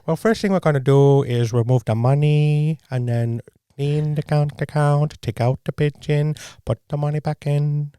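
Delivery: slow, deliberate hacker voice; walk through the steps slowly in a put-on scammer voice; measured comic quoting of a hacker; phone hacker bit. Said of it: "I love home phone hacker".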